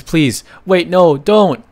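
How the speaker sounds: high, loud panicked begging; desperate plea. Acted. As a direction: shout it as if your life depends on it. Victim begging before being killed.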